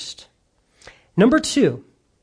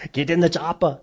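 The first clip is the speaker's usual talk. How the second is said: put-on laughing Arnold Schwarzenegger accent. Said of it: "I was gonna do this quote with his accent".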